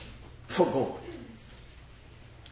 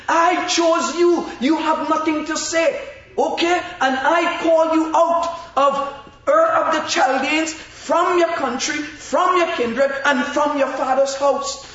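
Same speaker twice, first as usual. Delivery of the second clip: a touch of a commanding God, higher and firm; God speaking; 6 semitones higher than usual. Acted. Preacher voicing God telling Abram to leave, lightly commanding. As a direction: speak as God, settling the matter. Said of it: "God would have said to him".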